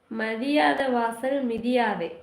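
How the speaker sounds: saying delivered slowly; slow proverb delivery. Shown as a demonstration. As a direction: quote the proverb deliberately. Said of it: "ஒரு dialogue சொல்லுவாங்களே". (பழமொழியை மெதுவாக)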